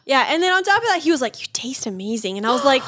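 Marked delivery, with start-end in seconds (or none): 1.4-2.4 whispered quote. Retold or imitated. Boyfriend's line quoted in whisper.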